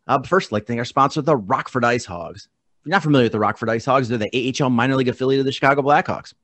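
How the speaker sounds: brisk, upbeat sponsor read; quick radio-style sponsor plug. Acted. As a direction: rattle off the ad copy quickly, like a radio spot. Host reads sponsor ad.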